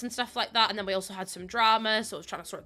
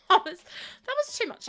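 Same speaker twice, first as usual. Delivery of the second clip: mock wail; 10 semitones higher than usual. Real, not acted.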